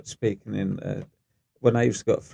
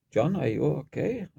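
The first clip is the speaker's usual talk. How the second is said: slow, higher-pitched mimicked query; imitated concerned porter; 5 semitones higher than usual. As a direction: play a puzzled co-worker checking on someone. Porter checks on man lying injured.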